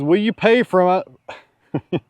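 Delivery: high, slow mock-pleading voice; lightly voiced pleading viewer; mock asker voice. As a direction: drag it out like a hopeful buyer asking. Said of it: "his question is".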